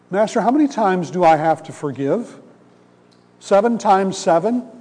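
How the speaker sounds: fish for praise with a proud lilt; self-satisfied question. Retold or imitated. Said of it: "feeling pretty good about himself".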